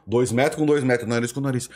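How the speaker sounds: normal talking voice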